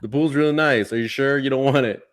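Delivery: eager coaxing, leaning on really; persuasive sell. Retold or imitated. Dad coaxing his son to skip the seashells, eager. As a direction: coax him gently but insistently.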